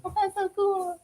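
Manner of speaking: awed delight. Retold or imitated. Quoting own awe at the photo.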